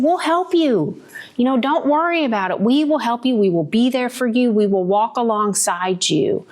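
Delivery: reassuring parents. Retold or imitated. Parents to pregnant daughter, reassuring. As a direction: comfort the frightened daughter. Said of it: "they said".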